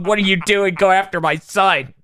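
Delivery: lightly hammed-up outrage; scolding mother, acted. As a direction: play an indignant mother telling someone off. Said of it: "beats the shit out of Krillin and tells him".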